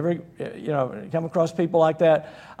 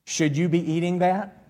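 nagging spouse; 3 dB quieter than usual. Acted. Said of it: "a dangerous comment would be this".

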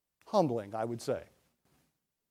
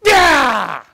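sudden loud yell, higher; farmer's yell; 5 semitones higher, 8 dB louder than usual. Retold or imitated. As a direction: startle the ox with a shout. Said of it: "and he'd go".

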